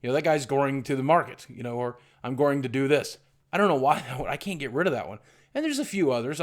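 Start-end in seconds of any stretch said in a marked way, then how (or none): 0.1-1.5 "goring" for going, R slipped into the middle; intrusive R in going. Shown as a demonstration. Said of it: "and I'll say goring". 2.2-3.2 "going" pronounced goring, with an R in the middle; intrusive R in going. Shown as a demonstration. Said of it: "and I'll say goring".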